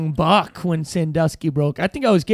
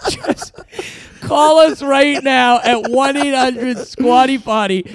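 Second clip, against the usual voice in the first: slow, slightly higher sales pitch; home shopping host; 4 semitones higher, slower than usual. Pretend. Parody infomercial pitch.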